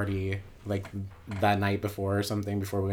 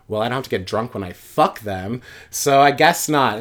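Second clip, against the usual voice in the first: angry comeback; 3 semitones higher, 10 dB louder than usual. Retold or imitated. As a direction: fire it back at the father. Furious retort to her father.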